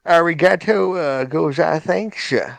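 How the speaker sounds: Texan drawl on the quote; Texan accent. Shown as a demonstration. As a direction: say it like a Texas cowboy. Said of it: "we gotta do it in Texan accent".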